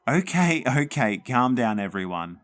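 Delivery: loud, high calling out. Acted. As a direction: call over the noisy girls. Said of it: "Mum called from the kitchen".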